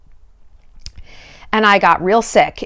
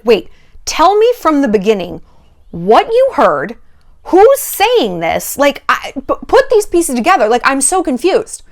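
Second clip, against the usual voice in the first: curious, not furious; 4 semitones higher than usual. Acted. Innocent person quizzing the friend who accused them, mildly acted confusion. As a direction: play the baffled innocent piecing it together. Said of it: "You would be curious, not furious".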